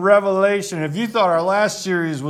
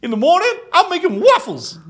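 much higher, louder, excited Donkey voice; Donkey impression; 13 semitones higher, 6 dB louder than usual. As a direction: squeal it like a hyper donkey. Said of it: "Is that better?".

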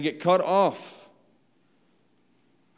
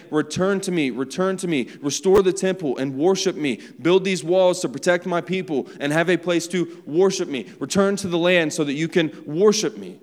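pleading call; 2 semitones higher, 4 dB louder than usual. Retold or imitated.

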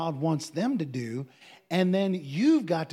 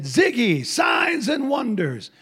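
high, loud Texas-prophet proclamation; Dale Gentry; 6 semitones higher, 6 dB louder, slower than usual. Retold or imitated. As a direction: shout it slowly in a mock Texas drawl. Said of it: "That's how he talks".

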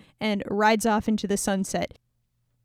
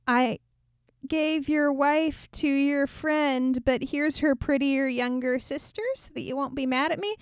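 lightly voiced apologetic father; 4 semitones higher than usual. Father making excuses to Samson.

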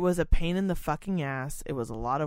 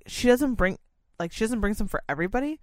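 incredulous boss; 5 semitones higher, 3 dB louder, faster than usual. Retold or imitated. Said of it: "she was like".

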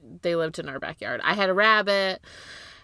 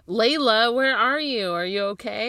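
calling out worried; 4 semitones higher, 5 dB louder than usual. Pretend. Calling out to the dog.

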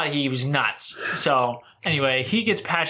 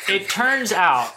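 still laughing; 6 semitones higher, 3 dB louder, slower than usual. Real, not acted. Retry after laughing.

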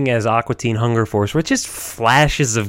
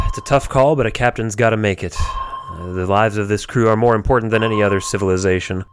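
Captain Murphy voice; 3 semitones lower than usual. Acted. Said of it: "the Captain Murphy voice".

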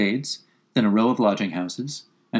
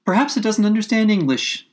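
put-on higher, puzzled girl; 10 semitones higher, 3 dB louder than usual. A narrator's reading. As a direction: wonder aloud as a young girl. Alice wondering.

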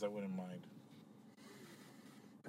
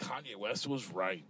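disbelieving repeat; 4 semitones lower, 6 dB quieter, slower than usual. Acted. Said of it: "Oh, my God".

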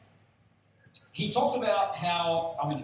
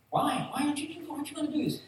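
much higher pleading why; mock protest; 11 semitones higher, faster than usual. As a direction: whine it like a crowd that won't let go. Crowd protesting Jesus leaving.

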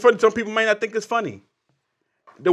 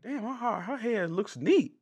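laughing; 2 semitones higher, 8 dB quieter, slower than usual. Real, not acted. Laughing while retelling.

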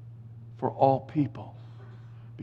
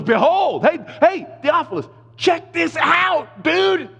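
high, slowed-down buddy voice calling a friend; casual Luke; 13 semitones higher, 4 dB louder, slower than usual. Retold or imitated. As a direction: play Luke nudging his pal Theophilus. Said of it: "That's what he's saying".

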